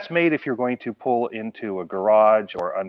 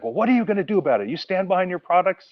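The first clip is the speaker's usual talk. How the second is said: a touch of demanding impatience, higher and fast; mildly mock irate customer; 8 semitones higher than usual. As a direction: play the pushy customer, lightly hammed-up.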